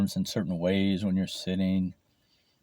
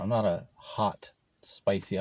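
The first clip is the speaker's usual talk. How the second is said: whispered aside; 4 dB quieter than usual. Real, not acted. Aside whispered mid-sentence.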